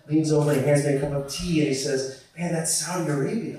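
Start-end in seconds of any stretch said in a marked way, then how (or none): 2.4-3.6 awed friend. Acted. Friend's awed remark over tea.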